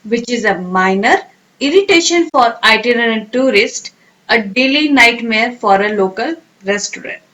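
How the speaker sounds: slow teacher dictation. Shown as a demonstration. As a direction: read it slowly for students to repeat. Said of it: "sentence में कैसे use करेंगे".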